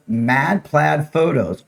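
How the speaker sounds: each word spaced out slowly; slow, careful. Real, not acted. Giving viewers a Facebook address, slow and careful.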